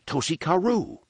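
high panicked yell of the name. A narrator's reading. Fleeing local yelling the name to the group, high yell. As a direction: shout the name and flee. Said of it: "one of them yelled".

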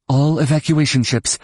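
urgent broadcast call, lightly acted. A narrator's reading. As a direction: address every ship by radio. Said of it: "Leia called into her pickup".

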